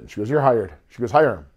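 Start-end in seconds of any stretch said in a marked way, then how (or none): 0.3-0.7 loud, high retold announcement; emphatic verdict. Owner's wife hiring the singer on the spot, emphatic. 1.1-1.5 loud, high retold announcement; emphatic verdict. Owner's wife hiring the singer on the spot, emphatic. Missus Ditka ordering him hired.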